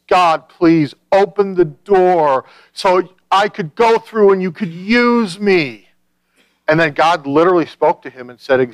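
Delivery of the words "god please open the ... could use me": mock-sobbing prayer, high and drawn out; imitated tearful pleading. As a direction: beg slowly in a raised, wailing voice. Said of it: "he literally just cries and he sobs and he says".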